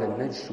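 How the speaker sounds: "النجش" with no vowel after the j; sukun on jim. Shown as a demonstration. Teacher citing Qadi Iyad's reading, "النجش" as najsh. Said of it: "بالسكون".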